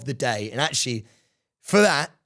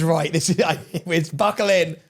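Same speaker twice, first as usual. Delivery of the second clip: lightly mocked, laughing impression of his wind-up; imitating co-host. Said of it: "I love it when he goes".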